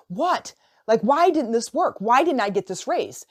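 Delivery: lightly acted bewildered protest; mild frustrated disbelief. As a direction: replay it in disbelief, acting it out. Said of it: "you're frustrated".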